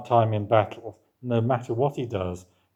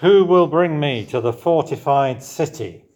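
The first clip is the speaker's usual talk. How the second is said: David's plea; 5 semitones higher, 7 dB louder than usual. Retold or imitated. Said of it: "It's David again".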